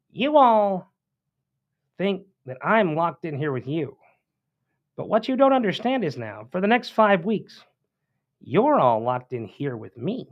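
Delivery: high-voiced senator, halting between phrases; Rob Schaaf impression. Host quotes senator's threat on the Senate floor, high put-on voice. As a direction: pitch it high and pause for menace, mock-dramatic. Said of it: "he had that high voice".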